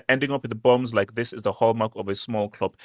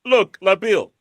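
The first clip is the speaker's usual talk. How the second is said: high, heated call-out, slower on "name me"; excited challenge; 8 semitones higher, much slower than usual. Real, not acted. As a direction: dare him to name a single team. Calling out Labil with a challenge.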